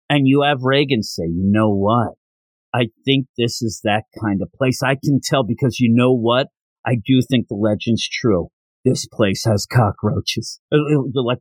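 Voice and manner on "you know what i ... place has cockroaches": lightly voiced, lower-pitched pronouncement; mock-solemn pronouncement. Reagan announces his verdict on the legend, mock-solemn. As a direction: deliver it low, slowing on the last line.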